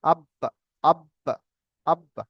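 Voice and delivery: আব্বা with the ب held, then released in a short echo; qalqalah bounce. Shown as a demonstration. Teacher showing students qalqalah, আব্বা with a bouncing b. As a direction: close on the b of আব্বা, then let it bounce lightly. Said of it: "পুরোপুরি বা উচ্চারণ হবে না".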